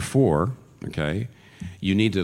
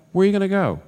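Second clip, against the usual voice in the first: much higher, louder urgent plea; climactic plea; 12 semitones higher, 6 dB louder, faster than usual. Real, not acted. Preacher repeating the question to his flock, climbing urgent plea. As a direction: push it to the peak of the appeal.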